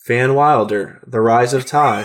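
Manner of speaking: flat, deadpan monotone. Real, not acted. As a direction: say it flat with no lift. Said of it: "I love how monotone your voice gets".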